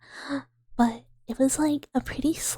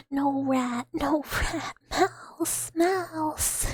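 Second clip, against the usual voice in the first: higher, squeaky insisting voice; squeaky mouse protest; 4 semitones higher, much slower than usual. Pretend. Streamer insisting to chat she is a mouse. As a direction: squeak like an offended little mouse.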